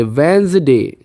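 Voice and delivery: वेंसडे as "wenz-day", d silent; repeat after me. Shown as a demonstration. Teacher leads students repeating the word. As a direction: model वेंसडे clearly for the class. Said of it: "मेरे साथ बोलिए".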